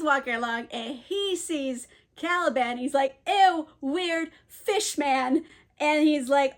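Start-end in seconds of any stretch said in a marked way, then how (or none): 3.3-5.4 slow, higher mock "ew"; mock disgust. Drunk cook sees a weird fish man, mock disgust. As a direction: drag it out, grossed-out and playful.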